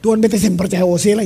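loud mock-angry Ambonese prayer; Ambonese scolding God. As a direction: imitate an Ambonese believer telling God off, loudly. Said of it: "Cuma orang Ambon yang marah-marah Tuhan".

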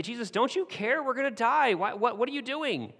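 terrified fishermen waking their teacher; panicked disciples. Acted. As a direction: yell over the storm like you think you're going to drown. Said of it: "and they say".

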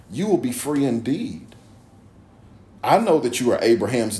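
measured, emphatic Bible reading; scripture reading. A narrator's reading. Preacher reading Jesus' words to the congregation, measured scripture reading. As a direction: read it out deliberately, phrase by phrase.

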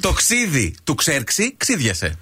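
slow tongue twister, word by word; slow repeat. Shown as a demonstration. Host repeats the tongue twister for a puzzled guest, slowly. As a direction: spell it out slowly with a laugh.

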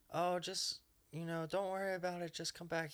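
hurried, high-pitched imitation of a timid woman; meek reassuring woman. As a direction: brush it off gently in a high voice. Voicing dominatrix character, timid reassurance.

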